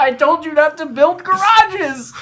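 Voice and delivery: put-on loud, high South African accent. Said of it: "Is that your South African accent?".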